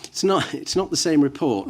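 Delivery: insistent, stressed "not", high on the first "It's not"; firm denial, pressing on "not"; emphatic correction. Real, not acted. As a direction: set the record straight firmly on "not". Counsel correcting the witness firmly.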